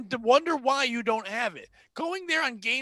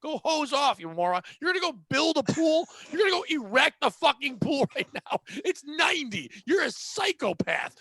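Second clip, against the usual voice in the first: louder, raised ranting insults; mock tirade; 4 semitones higher, 4 dB louder than usual. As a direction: tear into the customer, hammed-up. Ranting at customer, retold.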